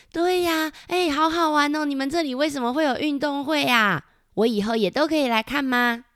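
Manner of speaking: put-on high, bubbly kid voice; excited little character. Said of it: "小黑皮也说". (兴奋的高音童声)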